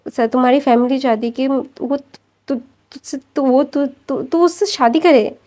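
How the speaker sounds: nervous stammer, stumbling over the start of words; a hesitant, broken stammer. Acted. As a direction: trip over the words while making excuses. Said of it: "तू ऐसे तुतला क्यों रहा है?".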